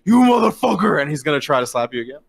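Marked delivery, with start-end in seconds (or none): 0.1-1.0 louder, higher furious curse; angry shout. Acted. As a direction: spit it at the enemy in rage. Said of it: "He goes".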